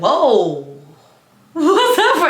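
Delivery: loud, high, laughing surprise; laughing whoa. Retold or imitated. Narrator reacting as the classmate storms out, laughing. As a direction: fake shock while stirring the pot.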